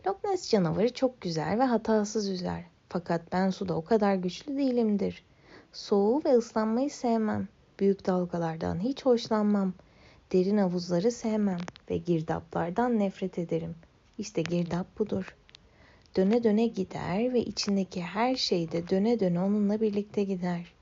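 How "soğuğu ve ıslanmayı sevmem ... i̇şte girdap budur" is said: usual speaking voice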